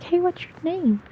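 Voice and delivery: high, light cutesy question; sweet high talking-to-kids voice; cute little kid voice. Retold or imitated. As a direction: pitch it up as if greeting a five-year-old. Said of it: "you do a cute little, little kid voice".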